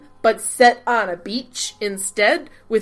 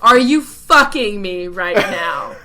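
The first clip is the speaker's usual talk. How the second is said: retold mock yell; 2 semitones lower, 6 dB louder, slower than usual. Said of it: "I actually screamed out loud".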